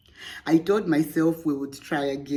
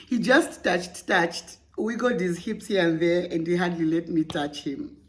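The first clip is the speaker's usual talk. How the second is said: Zambian accent. Shown as a demonstration. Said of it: "let me read that in my Zambian accent".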